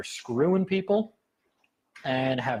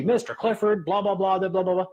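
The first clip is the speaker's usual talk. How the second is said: judge droning on; 6 semitones higher, 3 dB louder than usual. Retold or imitated. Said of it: "And she".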